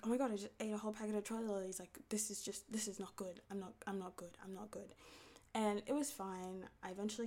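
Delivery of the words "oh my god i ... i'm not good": retold crying. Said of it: "I was also crying because I was like".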